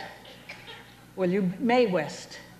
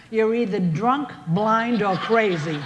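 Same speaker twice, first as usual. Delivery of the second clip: loud, emphatic punchline; 5 dB louder, slower than usual. Acted. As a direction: belt out the punchline. Punchline, louder delivery.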